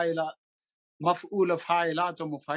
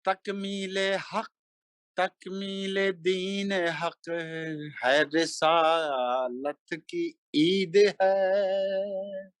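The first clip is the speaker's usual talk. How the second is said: slow melodic chanted Urdu verse; stately nazm recitation; 2 semitones higher, much slower than usual. Acted. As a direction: intone each line like a mushaira poet. Recites a manqabat at a gathering.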